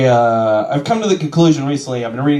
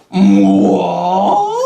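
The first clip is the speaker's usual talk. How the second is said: put-on shocked kid; 6 semitones higher, 5 dB louder than usual. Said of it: "I was just like".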